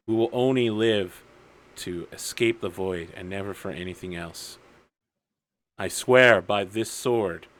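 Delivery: lightly acted brooding hero, measured pauses; deliberate, grave speech building to an oath; solemn vow monologue. Hero monologuing head down over his sword, solemn resolve.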